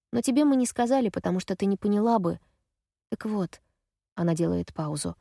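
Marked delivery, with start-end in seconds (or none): none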